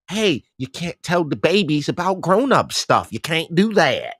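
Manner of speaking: lightly put-on country voice; a touch of country twang. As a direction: tell them off in a country drawl. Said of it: "in my best country voice".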